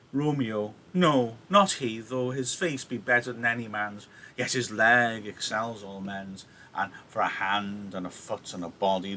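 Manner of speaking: rambling, leisurely appraisal, lightly acted; waffling nurse. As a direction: dawdle over each point to stall Juliet. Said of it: "she just waffles on about Romeo".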